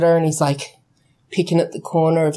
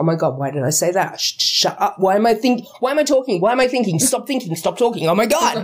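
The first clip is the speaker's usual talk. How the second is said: mock-panicked rush of self-scolding; freaking out. New starter berating himself on his first day, mock freaking out. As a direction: fret at yourself in mild comic panic. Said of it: "like, freaking out".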